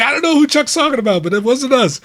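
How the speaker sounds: high, loud, quick comic denial; retold protest. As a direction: imitate a coworker hurriedly pleading innocence. Retold coworker denying blame.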